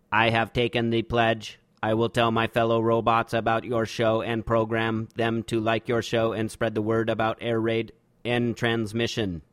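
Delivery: stiff, even robot monotone. Pretend. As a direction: read it like a lightly played machine. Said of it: "read the following aloud in a robot voice".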